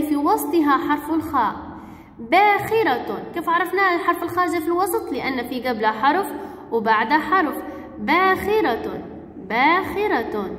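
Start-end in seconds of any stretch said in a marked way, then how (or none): 2.2-3.2 "باخرة" drawn out slowly; slow, lengthened model of "باخرة"; sounding out. Shown as a demonstration. Teacher sounds out example word. 8.0-10.5 "باخرة" stretched slowly; slow teaching repetition of "باخرة"; sounding out. Shown as a demonstration. Teacher repeats example word slowly.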